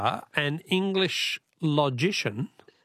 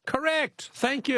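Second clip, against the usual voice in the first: much higher, thrilled "Correct!"; excited announcement; 11 semitones higher, slower than usual. Real, not acted. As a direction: announce the winner with delight. Caller finally gets the answer.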